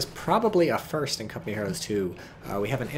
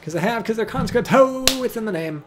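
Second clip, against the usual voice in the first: excited outburst; 12 semitones higher, 9 dB louder than usual. Real, not acted. Mocking conscripts, excited outburst.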